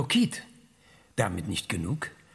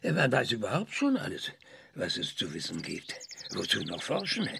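mocking echo; 3 semitones lower than usual. Old scientist mocking the visitor's words, dry sarcasm. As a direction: throw her words back with dry sarcasm.

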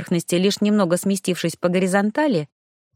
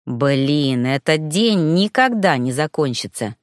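upset; 6 semitones lower, slower than usual. A narrator's reading. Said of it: "расстроенно сказал Герман".

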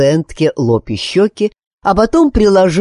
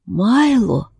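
a frail woman calling out her husband's name; faint calling voice; 7 semitones higher than usual. A narrator's reading. Sick wife calls to her husband, faint and breathy.

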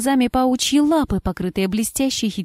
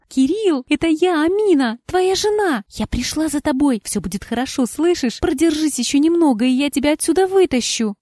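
urgent pleading; 6 semitones higher than usual. Acted. Wife begging her husband to hold on, urgent plea. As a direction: urge him to hold on.

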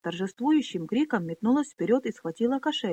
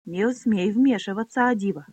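spiteful snap; 4 dB louder than usual. Acted. Pona snaps at Adiva not to interfere, spiteful. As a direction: snap it at her with venom. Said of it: "злобно бросила Пона".

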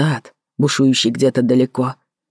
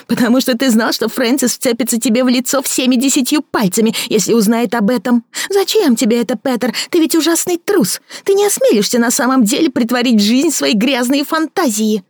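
a bitter woman mocking her lover; Victoria mocking; 10 semitones higher than usual. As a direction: sneer at his fancy words. Victoria taunting.

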